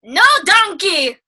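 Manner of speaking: grumpy ogre throwing him out, slowly; hammed-up ogre yelling get off my swamp; Shrek voice. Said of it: "And then Shrek's like".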